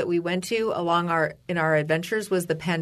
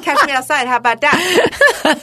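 louder, slow drawn-out dare; taunting; 6 semitones higher, 7 dB louder, slower than usual. Retold or imitated. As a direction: challenge her with a smirk. Taunting the clerk in imagined retort.

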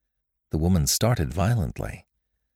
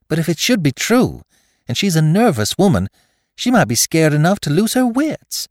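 very high, loud, fretful plea; anxious wife; 11 semitones higher, 6 dB louder than usual. A narrator's reading. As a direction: press your fears on him, voice pitched right up. Frightened wife pleading with husband.

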